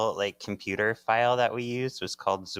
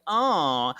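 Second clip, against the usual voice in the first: a loud, hammed-up gravelly Batman growl; 4 semitones higher, 7 dB louder than usual. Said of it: "Trying to do the Batman voice".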